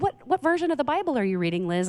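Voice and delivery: a light imitation of her father asking; dad's question. Young Liz's dad asking her which Bible version. Pastor dad voiced in story.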